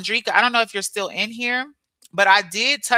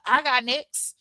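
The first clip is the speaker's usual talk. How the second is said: laughing; slower than usual. Real, not acted.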